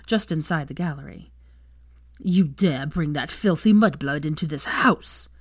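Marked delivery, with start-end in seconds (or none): 2.2-5.3 put-on slow, sneering old aristocrat. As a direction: spit the insult with slow disdain. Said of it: "his grandfather sneered at them".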